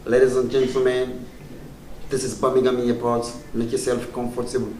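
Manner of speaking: lightly imitated British airport woman; measured, courteous announcement, a hint of British woman; British woman announcer. Comedian mimics Birmingham airport welcome, fine British woman voice. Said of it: "British, na, you hear fine woman voice".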